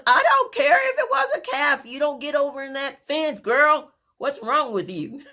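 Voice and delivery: high, loud scolding brother; scolding big brother. Retold or imitated. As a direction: tell off the little sister. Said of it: "And he goes".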